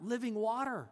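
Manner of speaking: "Living water?" scoffed, "Living" leaned on; mock disbelief on "Living water?"; incredulous. The woman repeats Jesus's words, scoffing. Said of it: "she's very sarcastic here".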